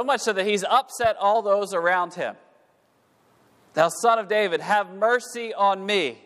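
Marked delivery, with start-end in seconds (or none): 3.7-6.2 a pleading cry to Jesus, higher than before. Acted. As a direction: call out desperately to be heard. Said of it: "he's crying out, screaming out".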